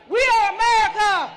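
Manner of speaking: call to the crowd. Real, not acted. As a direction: say it big so they echo it. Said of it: "Say it with me".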